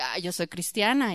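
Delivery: proudly declaring herself Christian, mocking; lightly mocking a proud believer; smug pride. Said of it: "siento así todo el orgullo".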